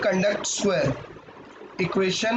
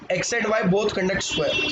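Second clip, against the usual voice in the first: slow dictation; much slower than usual. Shown as a demonstration. Teacher dictating while writing.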